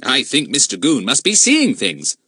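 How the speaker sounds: slow mock-concerned schoolboy. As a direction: feign worry, slowly. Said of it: "in a concerned voice".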